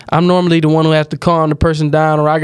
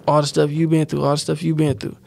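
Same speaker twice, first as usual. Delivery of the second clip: all the stuff you been through repeated, dropping softer each time; fading repetition; 6 dB quieter than usual. Real, not acted.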